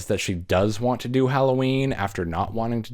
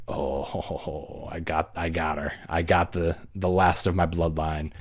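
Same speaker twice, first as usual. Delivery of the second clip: gloating Michael; 2 semitones lower, 3 dB quieter than usual. Retold or imitated. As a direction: chuckle darkly like a pleased killer. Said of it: "and he's like".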